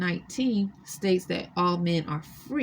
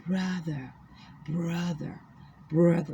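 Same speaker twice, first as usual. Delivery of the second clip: put-on African female accent. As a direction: coax him in a faint African woman's accent. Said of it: "it's with an African Negro female accent".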